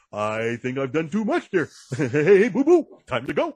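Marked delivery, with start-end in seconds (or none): 2.0-3.6 Yogi Bear voice. Pretend.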